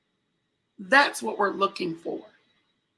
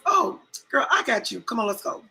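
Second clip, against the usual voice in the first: eager helper; 2 semitones higher than usual. Retold or imitated. Helpful lady to lost speaker, bright eager imitation. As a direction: imitate a cheerful stranger offering help. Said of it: "She says".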